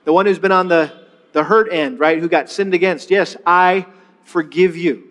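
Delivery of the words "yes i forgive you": slow, gentle pacing; slow model line. Shown as a demonstration. Pastor modeling forgiveness, slow. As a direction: give the words room. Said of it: "Say that with me".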